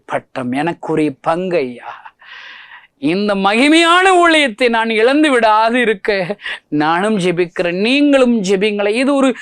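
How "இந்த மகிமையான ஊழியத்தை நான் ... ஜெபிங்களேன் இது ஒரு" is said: high, loud challenging sermon questions; preaching at full force. Acted. Preacher challenging Christian friends to win sinners, full-force preaching. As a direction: hammer each question at the listeners. Closing appeal.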